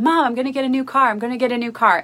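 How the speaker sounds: quick retelling of an eager son; excited son. Retold or imitated. Son coming back to his mom, mildly acted excitement. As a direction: hurry it out, playing a son with news. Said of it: "being full of excitement".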